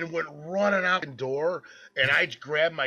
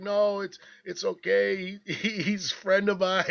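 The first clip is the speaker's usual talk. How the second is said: high, pleading mock sob; imitating crying; 7 semitones higher than usual. Girlfriend on the phone to police, high tearful pleading. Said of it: "and she's crying".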